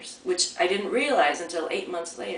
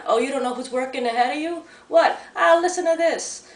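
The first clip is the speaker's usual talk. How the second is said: mocking taunt; 5 semitones higher, 3 dB louder than usual. Brothers mocking the attendant.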